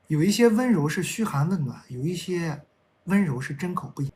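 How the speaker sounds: measured love-poem recital; poem reading. Acted. Reads a love poem aloud.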